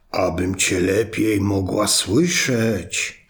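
slow, low, sly answer; wolf as grandma. Acted. Wolf in grandma's bed answering the girl, in a slow sly voice. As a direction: draw it out, hiding the wolf.

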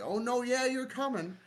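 high, laughing mock sweetness; squeaky laughing sarcasm; mock sarcastic high voice. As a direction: sing it out teasingly, laughing. Mocking friend who betrays.

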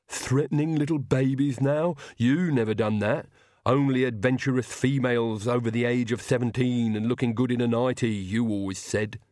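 put-on henchman voice, grumbling; disgruntled Igor. Igor compares new master with the old, grumbling. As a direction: complain like a loyal but offended servant.

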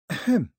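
short, high throat-clearing "ahem"; pointed ahem. Acted.

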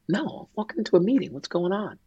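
fast, high and hurried, caught off guard; rushed, puzzled reply. Retold or imitated. Husband on the phone walking into a meeting, fast and puzzled. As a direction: toss it off mid-stride, not yet worried. Retelling his reply to wife's call.

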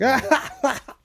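short high-pitched mock scream. Shown as a demonstration. Showing friends how drinking let him scream, mock scream. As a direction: let out a high scream without much volume. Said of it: "I can just scream".

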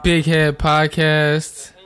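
slow, proud show opener; podcast intro. Acted. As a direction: announce the show like a host. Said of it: "excuse me".

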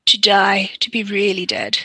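a hint of a slow brooding Dracula; mock Dracula. Viewer quoting Dracula to Lucy, lightly dramatic. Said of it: "says Dracula".

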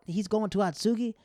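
retold friends gasping at the news; mock disbelief. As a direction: imitate friends' shocked "Atsugi?".

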